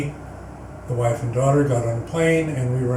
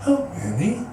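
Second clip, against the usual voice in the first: sweetly; 8 semitones higher than usual. Retold or imitated. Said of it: "he looked down at me so sweetly".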